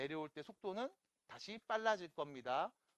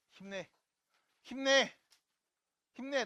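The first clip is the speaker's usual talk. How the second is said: rally yourself, louder on the repeat; self pep talk; 9 semitones higher, 10 dB louder than usual. Real, not acted. Teacher cheers himself on mid-lesson, rising loud pep talk. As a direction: cheer building to a loud, high shout. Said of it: "나한테 하는 말이에요".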